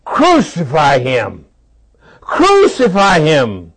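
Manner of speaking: slow, drawn-out crowd chant voiced by the preacher; mock crowd cry. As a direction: chant it slowly like a mob, half-acted. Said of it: "they cried out saying".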